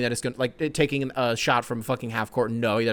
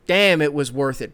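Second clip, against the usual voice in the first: quoting the quote; 5 dB louder than usual. Retold or imitated. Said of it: "He goes".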